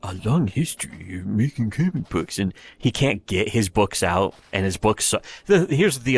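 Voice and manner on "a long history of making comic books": drawled, self-important mock voice; lightly voiced mock of a comic artist bragging; mocking a pompous creator. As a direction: sneer it out like a smug has-been. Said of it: "just being like".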